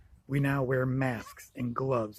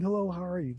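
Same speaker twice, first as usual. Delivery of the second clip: retold child shout; 5 semitones higher than usual. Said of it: "So he screamed".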